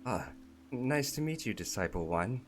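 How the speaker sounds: a chirpy goblin being polite; friendly goblin. Acted. Goblin greets Disciple One, high and friendly.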